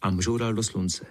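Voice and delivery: usual speaking voice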